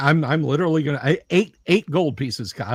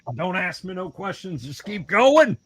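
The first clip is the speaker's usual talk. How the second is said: higher-pitched in-character order; commanding party member; 5 semitones higher than usual. Acted. Player hurrying the party along, mock commanding. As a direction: brush off questions and urge them on.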